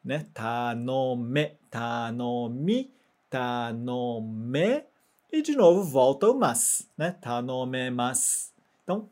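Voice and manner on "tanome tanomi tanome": tanome, tanomi, tanome with the final me and mi kept distinct; teacher alternating the two endings; contrast drill. Shown as a demonstration. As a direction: drill the me against mi. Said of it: "Transforma pro som de e".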